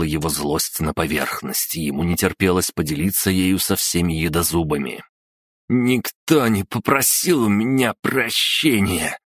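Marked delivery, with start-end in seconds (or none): 5.7-9.2 put-on drunk. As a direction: slur it out like a drunk. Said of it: "пьяным голосом сообщил он". (пьяный голос)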